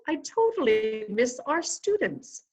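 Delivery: attempted British accent on request. Guest obliges host's quiz challenge in a playful British accent. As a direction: put on your best British accent, amused. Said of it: "in your best British accent".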